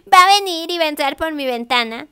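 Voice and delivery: mock-scared reader fearing the window. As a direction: play a reader spooked at night. Imagined scared reader at night.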